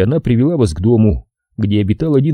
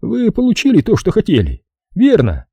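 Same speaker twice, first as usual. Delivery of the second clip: Fowler the boss; 11 semitones higher than usual. Acted.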